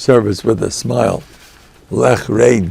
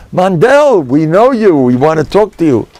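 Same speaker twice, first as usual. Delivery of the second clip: calling out; 7 semitones higher, 4 dB louder than usual. Retold or imitated. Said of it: "these guys come".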